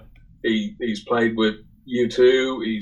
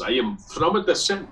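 lilting mock Italian accent, pitched up; put-on Italian-accented English; 5 semitones higher than usual. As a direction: imitate an Italian bluffing his way through. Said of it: "uh, Italian guy".

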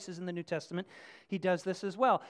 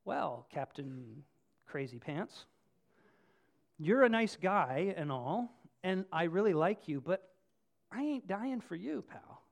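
dismissive soldier reply. Pretend. Soldier refuses the captain.

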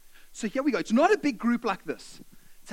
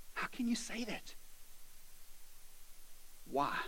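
hurt disbelief; 15 dB quieter than usual. Acted. Slave questions Paul in hurt disbelief.

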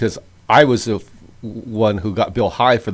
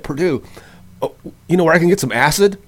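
higher, eager mock Bill voice; lightly voiced eager friend asking, a touch higher; imitating Bill; 7 semitones higher than usual. Friend retells Bill begging him for acid, higher eager mock voice. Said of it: "He's like".

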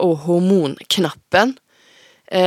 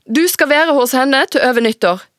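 firm ruling; 7 semitones higher, 4 dB louder than usual. Acted. Mother delivers the ruling.

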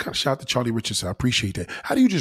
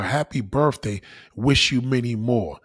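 warm greeting; 4 semitones lower, slower than usual. Retold or imitated. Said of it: "I said to her".

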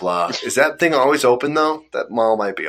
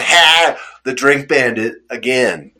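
gloating prank villain; 2 semitones higher, 4 dB louder, slower than usual. Retold or imitated. Prankster boasting to a pranked friend, mock villain gloat. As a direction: crow like a cartoon bandit. Prankster taunting as drink bandit.

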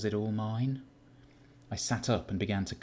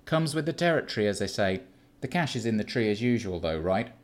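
louder, sardonic, brushing it off; dismissive Keith; 2 semitones higher, 4 dB louder than usual. Acted. Keith waves away the news of the killing, sardonic. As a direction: shrug off the murder.

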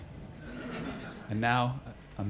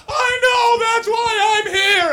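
earnest recruit; slower than usual. Pretend. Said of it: "you're like".

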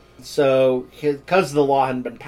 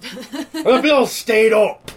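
laughing; 9 semitones higher, 4 dB louder, much slower than usual. Real, not acted. Laughing through the punchline.

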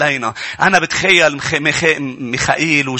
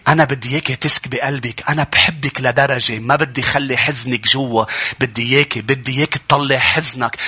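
loving compassion. Acted. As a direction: gently invite them to pour out grief. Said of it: "تحنن وحب".

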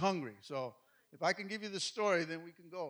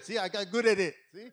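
laughing; 6 dB louder than usual. Real, not acted. Joking about making up words.

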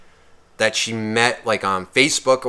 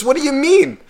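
much higher mock girl voice, baffled. Teller imitating the rejected girl, higher and baffled. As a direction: squeak out her confusion.

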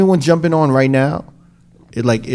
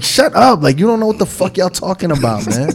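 higher, harder retold shut up; hammed-up annoyed shut up; exasperated mock outburst; 5 semitones higher than usual. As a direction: snap at them in mock exasperation. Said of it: "I'm just like".

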